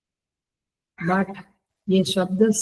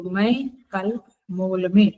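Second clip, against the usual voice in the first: slow, stopping after में; slow partial sentence; slower than usual. Shown as a demonstration. Teacher says half the sentence slowly to show it. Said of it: "mall में के साथ तो कल नहीं बोला".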